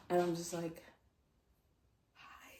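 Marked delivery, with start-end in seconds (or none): 2.1-2.5 tiny, voiceless mock greeting; starstruck fangirl. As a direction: barely get it out, acting overwhelmed. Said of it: "those fangirl interactions, like, that's how I felt".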